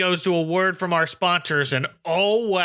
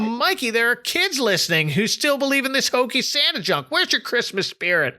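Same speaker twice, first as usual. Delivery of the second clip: yelling; 7 semitones higher than usual. Retold or imitated. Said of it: "He yells at him".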